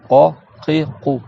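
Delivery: q from the entrance of the throat in qo, qi, qou; deep qaf in qo, qi, qou. Shown as a demonstration. Teacher has pupils say the qaf, demonstrating it deep back. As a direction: qaf far back on each syllable. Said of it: "presque à l'entrée de la gorge".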